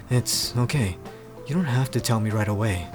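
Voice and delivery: low, soothing character voice; deep and calm; calming Pierce. Acted. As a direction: reassure in a deep, gentle voice. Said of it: "tried calming Noi down".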